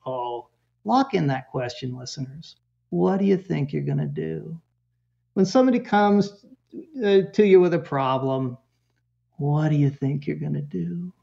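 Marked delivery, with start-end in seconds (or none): 2.9-4.6 softly modelled caring question; loving. Shown as a demonstration. Parenting expert models question for listeners, loving. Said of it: "Real loving". 9.4-11.1 soft, tender question; real loving. Shown as a demonstration. Parent answers someone bringing a problem, real loving. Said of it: "Real loving".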